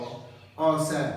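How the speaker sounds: अ सैन drawn out slowly on a rising second tone. Shown as a demonstration. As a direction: stretch अ सैन slowly and let it rise. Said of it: "माने second टोंग".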